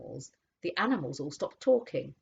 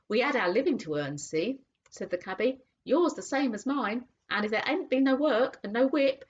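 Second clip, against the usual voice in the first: cockney cabby; 6 semitones higher than usual. Acted. Cabby voiced.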